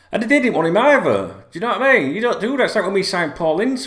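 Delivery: loud, high, incredulous rant; indignant outburst. Real, not acted. Fan venting to viewers about rival club, loud and indignant. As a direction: let the outrage burst out.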